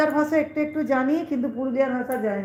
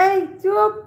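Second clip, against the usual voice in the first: sharp hush; 8 semitones higher, 5 dB louder, slower than usual. Real, not acted. Telling off a rude commenter.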